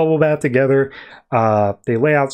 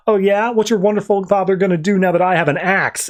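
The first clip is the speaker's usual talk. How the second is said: higher mock taunt; fake arguing; 4 semitones higher than usual. Harley taunts Cindy about her father, mock threatening. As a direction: goad them in a staged quarrel. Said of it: "it's clearly fake".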